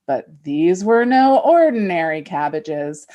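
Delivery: a lightly theatrical fairy-tale read; dramatic story reading. Shown as a demonstration. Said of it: "a dramatic abridged reading".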